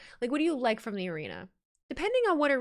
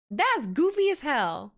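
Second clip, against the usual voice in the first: slow, drawn-out and louder; amused disbelief; 4 semitones higher, 4 dB louder, much slower than usual. Real, not acted. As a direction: stretch it out in mock outrage. Reacts to crowd chant guess.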